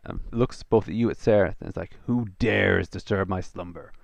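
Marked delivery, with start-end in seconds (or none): 2.1-3.9 angry elemental creature. Acted. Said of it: "creature comes out of the altar, angry, angry".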